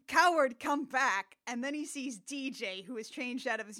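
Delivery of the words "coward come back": mild mock yell. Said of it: "yells at him and says".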